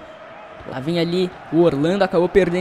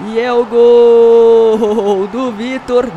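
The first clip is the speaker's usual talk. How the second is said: goal call; 8 dB louder, much slower than usual. Real, not acted. Goal call in match commentary.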